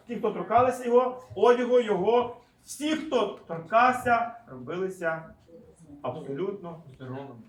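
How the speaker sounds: emphatic, deliberate reading, settling at the end; scripture reading. Acted. Preacher telling of the healed who touched him, emphatic reading. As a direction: read it out in measured phrases.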